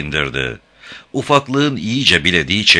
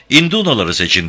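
shouting; 4 semitones higher than usual. Acted. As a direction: yell the order over the noise. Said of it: "diye haykırdı".

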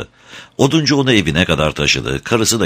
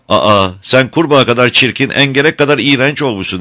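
high, louder taunting; mocking children; 8 semitones higher, 5 dB louder than usual. A narrator's reading. Friends taunt the ugly star child, high loud mockery. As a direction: jeer at him like cruel playmates. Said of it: "onunla alay ettiler".

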